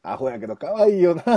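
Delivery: Kansai dialect. Retold or imitated. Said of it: "関西弁で言ったら".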